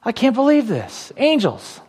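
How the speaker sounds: light, slipped-in Biden impression of a calm Jesus; a hint of an elderly politician musing; Joe Biden voice. Pastor acting out a surprised Jesus, lightly Biden-like. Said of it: "I sound like Joe Biden".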